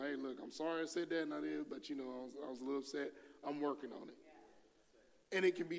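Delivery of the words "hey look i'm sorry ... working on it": soft apology. Retold or imitated. Quiet apology to daughters.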